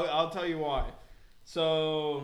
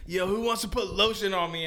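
higher crowd-hyping call; imitated rapper; 4 semitones higher, 4 dB louder than usual. Retelling the opener's lotion request, imitated showman. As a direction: holler it at the audience. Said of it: "he was like".

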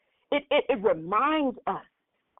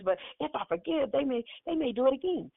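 doubting inner voice; 6 dB quieter than usual. Retold or imitated. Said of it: "That second voice says".

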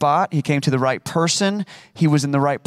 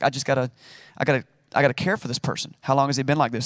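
calm paramedic; 2 semitones lower, much faster than usual. Shown as a demonstration. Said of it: "like a paramedic showing up to the site".

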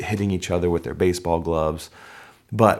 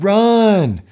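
a coach's urgent shout; 11 semitones higher, 8 dB louder than usual. Retold or imitated. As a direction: coach yelling run, much higher and louder. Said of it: "Then the parents said".

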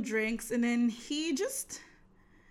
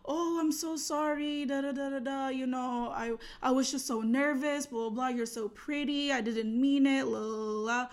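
half-hearted imitation of grovelling; mock apologetic; 2 semitones higher than usual. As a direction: imitate a date gushing sorry, then rattle it off. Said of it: "he was so apologetic".

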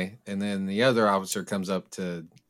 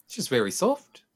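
gently raised New Zealand voice; 5 semitones higher than usual. Shown as a demonstration. Demonstrating the requested Taika voice.

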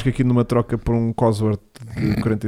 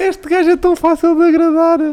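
mock amused; 4 dB louder than usual. Amused mock remark, high.

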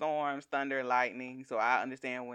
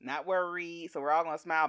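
ordinary talk

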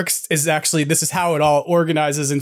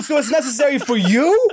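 mocking challenge; 8 semitones higher than usual. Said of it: "I said".

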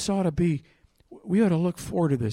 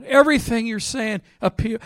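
higher-pitched imitation of a man yelling out; retold yell; 7 semitones higher, 4 dB louder than usual. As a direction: mimic a guy calling across the street. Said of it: "The guy yells out".

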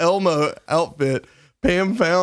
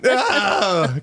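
higher "ah" of a lifter giving out; mock strain cry; 6 semitones higher than usual. Lifter failing a squat rep, mock cry of strain. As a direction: cry out as if the weight wins.

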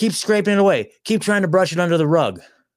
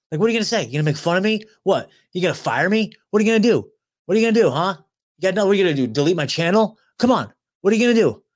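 defiant taunting; 5 semitones higher, faster than usual. Real, not acted. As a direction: come at me, taunt them to their face. Taunting the censors directly.

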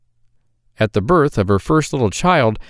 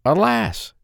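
put-on higher, sad young maiden; maiden's lament; 11 semitones higher than usual. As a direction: sigh it out as the worried girl. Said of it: "said she".

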